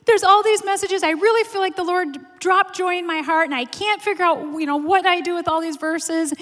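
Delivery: high-pitched, re-enacting a crying plea; mock tearful wail. Preacher re-enacting calling her husband over sermon prep, mock tearful. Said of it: "I started crying so hard".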